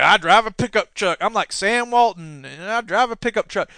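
lightly voiced folksy politician boast; a hint of a regular-guy brag; lightly mocking down-home candidate; mock Scott Brown. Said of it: "He doesn't talk like that".

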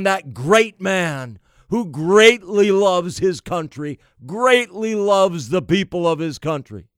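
heavily ironic admiration; sarcastic praise. Real, not acted. Host mocking praise for a leader, sarcastic. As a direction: praise him while meaning the opposite.

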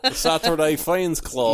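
slow, stiff robot voice. Retold or imitated. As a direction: say it like an intro robot. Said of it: "imitating our weird, like, robot voices".

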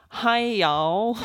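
lightly put-on American drawl; imitated American greeting. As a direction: mimic an American saying hello. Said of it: "saying American things you say".

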